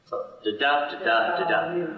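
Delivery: da syllables rising in pitch as the beat is counted out; da-DUM beat. Shown as a demonstration. Teacher to class showing the iamb rhythm, chanting da da. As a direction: tap out the iambic beat on da. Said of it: "short, long, or unstressed, stressed, da".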